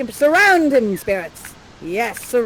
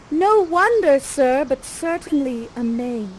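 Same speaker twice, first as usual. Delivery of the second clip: Miranda; 2 semitones higher than usual. Acted. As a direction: answer in slow, theatrical verse.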